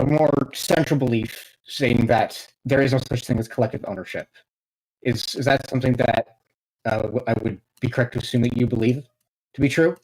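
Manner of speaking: glitchy, robotic digital voice. Real, not acted. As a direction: sounds like a bad robotic connection. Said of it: "your voice is kind of robotic a little bit".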